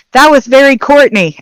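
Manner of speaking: hearty. Acted. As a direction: say it heartily, with lifted voice. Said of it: "he'll say very heartily".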